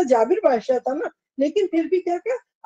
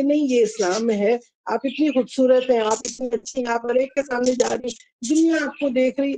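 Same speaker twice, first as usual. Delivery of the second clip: gentle persuasion. Acted. Teacher models advising a woman about purdah, gently persuasive. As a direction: persuade kindly, with a touch of affection. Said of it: "آپ دوسرے کو بتائیں پیار سے".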